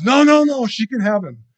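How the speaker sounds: high, loud desperate cry of a mother; panicked plea. Retold or imitated. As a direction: beg to save her child. The real mother pleads for baby.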